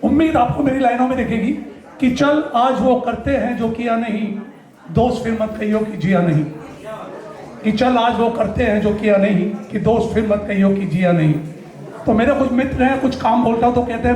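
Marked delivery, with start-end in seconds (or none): 2.1-11.3 measured mushaira-style delivery, falling at each line end; spoken-word verse; poetry recitation. Acted. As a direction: recite a couplet to an audience. Recites his motivational couplet.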